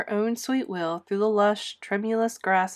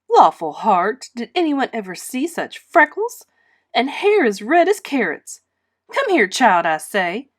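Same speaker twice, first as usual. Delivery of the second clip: higher, louder, bossy tactless neighbour; bossy busybody neighbour, mock-shocked; Mrs Rachel; 4 semitones higher, 8 dB louder than usual. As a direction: order the child over, loudly.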